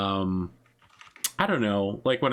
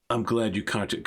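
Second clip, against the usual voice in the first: slightly lowered, guarded character voice; Ghost Score; 3 semitones lower than usual. Acted. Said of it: "he lowers his voice".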